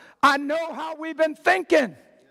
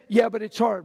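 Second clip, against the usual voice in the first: mock whiny excuse; 5 semitones lower than usual. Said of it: "what happens when they say".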